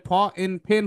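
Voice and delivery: ফ, then এন, blended into ফেন; ফেন built from ফ plus এন; phonics blending. Shown as a demonstration. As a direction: sound out ফেন with an aspirated p. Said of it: "ফি এর sound হচ্ছে ফ".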